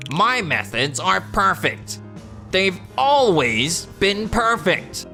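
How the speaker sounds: stubborn insistence. Acted. Proud employee rejects supervisor's criticism.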